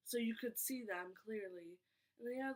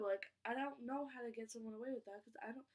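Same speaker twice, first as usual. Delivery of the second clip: stumbling, repeating words while rushing; stuttering; faster than usual. Real, not acted. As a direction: trip over the words nervously. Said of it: "I'm stuttering".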